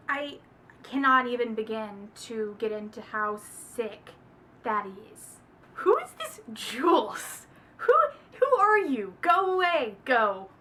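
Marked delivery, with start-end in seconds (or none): 5.8-10.5 loud, higher annoyed shooing; shooing away. Real, not acted. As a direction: chase her off the page.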